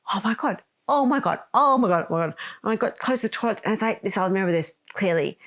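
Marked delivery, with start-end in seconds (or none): 0.0-2.3 rising panic. Retold or imitated. Replaying her dash to the aeroplane toilet, mounting panic. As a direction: repeat it as mounting mock alarm.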